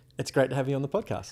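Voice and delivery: smiling all the way through. Asked to smile first, then repeat the same podcast welcome: said with a smile. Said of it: "just smile before you start and give me the same sentence".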